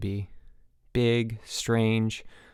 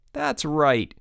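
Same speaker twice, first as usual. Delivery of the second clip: approving; 5 semitones higher than usual. Acted. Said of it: "Chip said approvingly".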